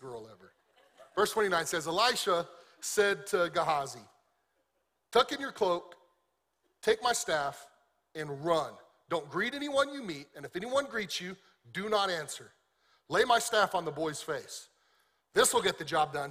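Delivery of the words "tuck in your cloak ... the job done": urgent orders. Acted. Elisha commanding servant urgently.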